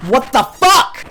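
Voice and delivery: drawn-out appalled what the fuck; disgusted surprise. Retold or imitated. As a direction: recoil at the smell of dirt. Discovers the fries smell like dirt.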